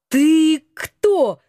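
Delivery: straight, direct ask; blunt question. Acted. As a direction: ask it flat out. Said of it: "прямо спросила я".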